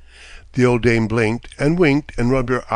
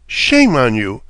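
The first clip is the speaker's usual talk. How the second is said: a sharp, louder rebuke; indignant cry; 5 dB louder, slower than usual. Acted. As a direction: scold him for stealing, out loud. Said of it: "she cried to the little man".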